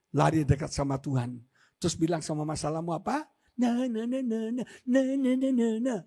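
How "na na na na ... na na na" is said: taunting. Shown as a demonstration. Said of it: "ngejek gitu loh".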